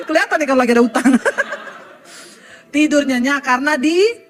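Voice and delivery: can't keep a straight face; laughing. Real, not acted. Preacher joking about debts to the congregation, laughing loudly.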